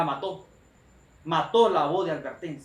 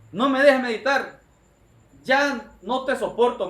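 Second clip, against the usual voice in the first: hombre enojado; 4 semitones higher than usual. Retold or imitated. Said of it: "se levanta el hombre enojado".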